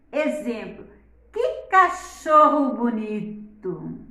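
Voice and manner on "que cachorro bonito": slow exclaiming "que cachorro bonito!"; exclamation. Shown as a demonstration. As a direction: admire the dog, stretching "que cachorro bonito!". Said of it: "olha a entonação".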